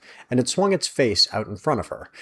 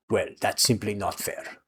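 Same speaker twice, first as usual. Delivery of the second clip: smiling voice; 6 dB quieter than usual. A narrator's reading. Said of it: "a smile in his voice".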